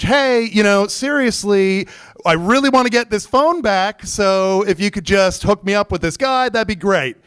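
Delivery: high, insistent retold phone message; irritated plea. Customer leaving car service another message, irritated. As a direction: press them with strained politeness. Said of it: "starting to get pissed off".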